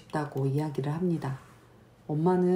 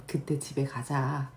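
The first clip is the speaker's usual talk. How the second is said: quieter, slow gentle reassurance; soft and gentle; 4 dB quieter than usual. Shown as a demonstration. Mom gently promising the child they'll go home, soft and slow. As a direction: soothe the child softly. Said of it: "이야기를 해야 합니다".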